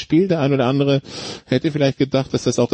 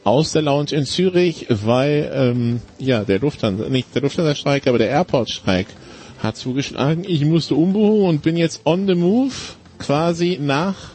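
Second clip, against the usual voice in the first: low quality stream. Real, not acted. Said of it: "sorry für die Tonqualität".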